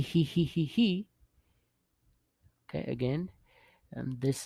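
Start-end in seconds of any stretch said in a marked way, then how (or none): 0.0-1.1 higher-pitched mock giggle; imitated laughter. Shown as a demonstration. Teacher showing written laughter, high imitated giggle. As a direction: recite "hee hee" as a light pretend titter. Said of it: "uh, laughter".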